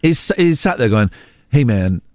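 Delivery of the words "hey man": imitated American voice; American accent. A rapper objecting on live TV, American accent. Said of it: "I'm doing an American voice".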